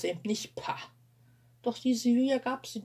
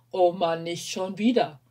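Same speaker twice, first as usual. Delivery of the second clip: loud, fed-up outburst; the weary cry of a worn-out big brother; oh no, not again, said loud; exasperated groan; 7 dB louder than usual. Acted. Martin sees Sarah fall again.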